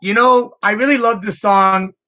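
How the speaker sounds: bright, high excited voice. Retold or imitated. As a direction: gush about the song. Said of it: "just says".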